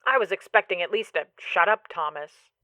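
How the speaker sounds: tinny voice from the phone; Thomas Sinclair. Acted. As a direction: talk through a tiny speaker, dropping off at the end. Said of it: "the voice from the phone replies".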